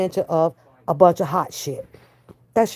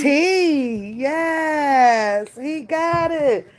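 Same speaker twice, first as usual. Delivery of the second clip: proud praise; 8 semitones higher, much slower than usual. Real, not acted. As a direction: cheer him on. Praising toddler.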